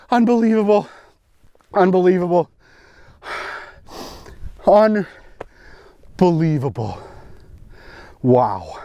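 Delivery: awestruck. Real, not acted. Awed after landing fish.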